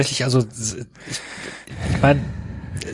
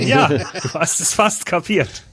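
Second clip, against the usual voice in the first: sarcastic. Retold or imitated. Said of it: "Und ich dann sagte".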